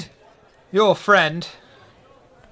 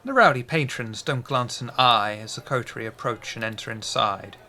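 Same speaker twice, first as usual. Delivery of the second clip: scene narration; 2 semitones lower than usual. A narrator's reading. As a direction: set the scene calmly.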